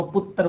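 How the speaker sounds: पुत्र said as put-tar with a doubled t; distorted pronunciation. Shown as a demonstration. Teacher imitating a regional पुत्र said as puttar. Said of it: "उसको पुत्र बोल दिया जाता है".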